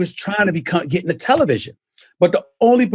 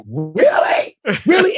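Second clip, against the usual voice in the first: mock disbelief; 3 semitones higher, slower than usual. Disbelief at sponsors.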